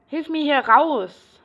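high, slow desperate plea; pleading. Acted. Patient begs a listener, high and slow. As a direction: beg to be let out.

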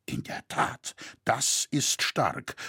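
hushed, slow astonished agitation; contained agitation, slowly weighted words; agitated, understated. A narrator's reading. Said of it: "rief Roritzer erregt".

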